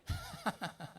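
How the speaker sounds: high burst of laughter. Real, not acted. Preacher laughs at own joke.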